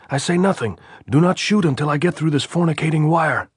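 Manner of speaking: high, loud yell across the wire; shouting. A narrator's reading. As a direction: shout to stop them shooting. Andres still shouting at post.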